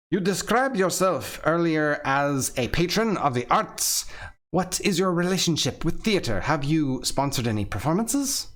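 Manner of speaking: a light put-on Russian accent; self-conscious stab at a Russian accent; Russian accent attempt. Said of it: "Trying to channel my inner, like, Russian".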